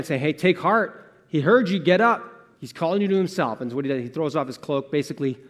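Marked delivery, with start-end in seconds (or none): 0.2-3.6 raised, eager shout of good news; encouraging call. Acted. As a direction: rouse someone to get up and come. Crowd calling to the blind man.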